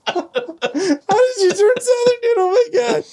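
squeaky high voice breaking into laughter; can barely get the words out for laughing; laughing hard. Real, not acted. Cracking up at friend's accent.

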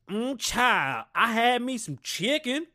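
high, loud mock Southern Black dialect; pandering Black dialect. Mocking politicians talking to Black voters, exaggerated Black dialect. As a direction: overdo a put-on Black accent, drawling and high. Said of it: "when they talk to black people".

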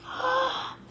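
sharp high frightened gasp; scared gasp. A narrator's reading. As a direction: gasp in fear. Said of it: "She sounded really scared".

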